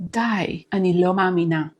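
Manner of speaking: soft, stunned "די" running into "אני לא מאמינה"; hushed disbelief on "די"; disbelieving intonation. Shown as a demonstration. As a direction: say "די, אני לא מאמינה" softly, as if you cannot believe it. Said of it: "It is".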